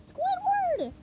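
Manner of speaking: yelling. Acted. SpongeBob yelling through Squidward's window, high shout. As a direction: yell to get his attention. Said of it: "he yelled".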